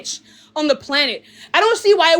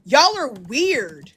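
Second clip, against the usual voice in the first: slow disdain; 4 semitones lower, much slower than usual. Real, not acted. Contemptuous rant.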